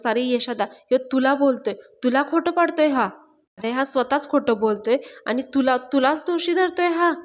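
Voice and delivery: mildly indignant, lifting high on key phrases; retold anger. Panya warns Yasha that Raja is blaming him, indignant. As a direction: stir him up with mild outrage. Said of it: "पाण्याला खूप राग आलेला असतो".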